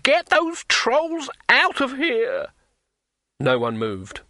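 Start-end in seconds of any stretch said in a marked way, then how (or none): 0.0-2.5 enraged scream. A narrator's reading. Innkeeper screaming the trolls out of his tavern. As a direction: bellow them out in fury. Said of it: "his face suffused with rage".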